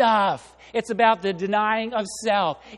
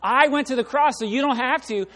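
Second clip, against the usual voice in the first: firm no; 7 semitones higher, 7 dB louder than usual. Retold or imitated. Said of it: "And he says".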